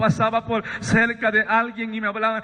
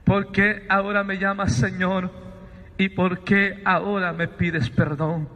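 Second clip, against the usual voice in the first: voice from the light; 4 semitones lower than usual. Retold or imitated. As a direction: ask it gravely, sinking lower at the end. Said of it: "Me dice".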